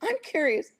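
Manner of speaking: very high incredulous question; retold question. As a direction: ask it in disbelief, pitch soaring. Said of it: "but I said".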